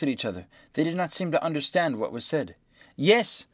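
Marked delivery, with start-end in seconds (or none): 2.9-3.5 high, loud "warmly" cried outburst; impassioned, raised-pitch exclamation; heated cry. A narrator's reading. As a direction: cry out with fervor. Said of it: "cried Passepartout warmly".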